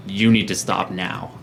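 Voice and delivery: slow, measured command; a lightly voiced stern order; authoritative. Giving the enemy options, mildly authoritative. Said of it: "very authoritative voice".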